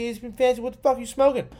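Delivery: high disbelieving rant; incredulous. Real, not acted. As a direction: scoff in disbelief. Mocking ESPN's player ranking.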